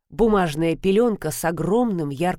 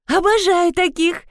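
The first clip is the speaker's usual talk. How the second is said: excited, higher and louder cry; delighted; 11 semitones higher, 4 dB louder than usual. A narrator's reading. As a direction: burst out with delight. Girl jumps up delighted.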